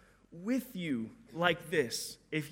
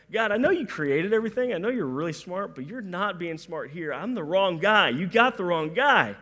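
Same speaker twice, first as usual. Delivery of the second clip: protesting Moses; 4 dB louder than usual. Retold or imitated. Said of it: "Moses was like".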